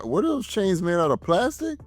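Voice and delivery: disbelief climbing very high; mocking question, pitch leaping at the end; incredulous. Viewer scoffing at flimsy movie chains, incredulous.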